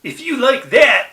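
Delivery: quoted cartoon line. Host quotes his favorite Otto line, performed cartoon voice. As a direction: deliver it high and punched, like a cartoon catchphrase. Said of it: "my first line is".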